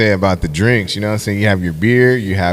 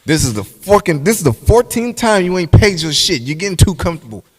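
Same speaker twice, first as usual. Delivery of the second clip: louder, higher mock scold at a freeloader; 6 semitones higher, 3 dB louder than usual. Scolding someone who never pays, loud mock anger. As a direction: bark it like a fed-up landlord.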